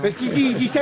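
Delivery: ordinary delivery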